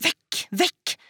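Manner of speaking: high, urgent dismissal; repelling cry. Acted. Daughter fending off mother's hand, high repelling cry. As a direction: push them away with a high cry.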